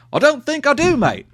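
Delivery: jokey Australian voice; Australian accent. Acted. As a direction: put on a mock Australian accent. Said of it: "why that was Australian".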